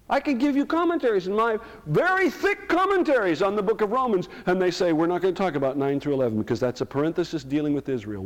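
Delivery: loud, high, far-carrying sermon voice; heated preaching. Real, not acted. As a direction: preach it hard at the pews. Preacher mocking commentators, heated.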